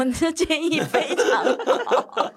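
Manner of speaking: loud, high, laughing mock praise; laughing retort. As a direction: retell the reply while cracking up. Retold reply to son, laughing. (边笑边夸张地回答)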